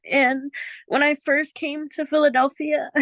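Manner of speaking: fighting back real tears; crying. Real, not acted. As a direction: voice breaking into tears. Tearful sharing about dead family.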